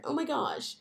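lightly put-on polite white lady; a hint of a sweet office lady. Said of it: "in your white lady voice".

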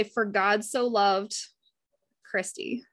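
slow, the name Christy whispered; slow prayerful line, Christy barely voiced; slow personal recital. Shown as a demonstration. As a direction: read it slowly, then breathe the name Christy. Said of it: "So say that right now".

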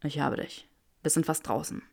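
quiet, steady comfort; soft reassuring. A narrator's reading. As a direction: reassure her softly. Draco voiced quietly.

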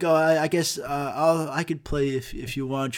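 put-on mildly hesitant shy girl. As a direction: imitate a shy girl, stumbling a little over the words. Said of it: "she was very shy".

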